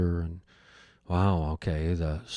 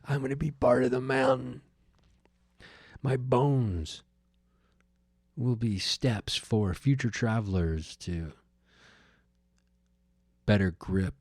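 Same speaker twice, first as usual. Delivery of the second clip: dramatic. Pretend. Hiker picturing his bones in the mountain, mock dramatic. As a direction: ham up the doom, then trail off into a whisper. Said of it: "I'm having this dramatic moment where I'm like".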